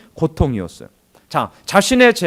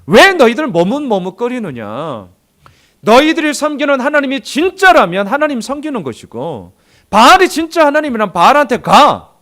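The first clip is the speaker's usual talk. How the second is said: crying out; 6 semitones higher, 4 dB louder than usual. Retold or imitated. Elijah on Mount Carmel rebuking the people, crying out. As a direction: rebuke the wavering crowd. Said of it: "이렇게 외치고 있잖아요".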